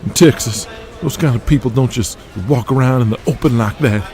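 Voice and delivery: brash wrestler voice. Acted. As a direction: rib him like a cocky young wrestler. Wrestler ranting about Pat.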